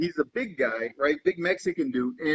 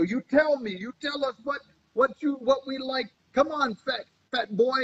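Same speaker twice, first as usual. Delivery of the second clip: higher, teasing heckler's jeer; a German guy in the front row jeering at the comedian, raised mocking voice; mock taunting heckler; 7 semitones higher than usual. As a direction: needle him like a rowdy front-row fan.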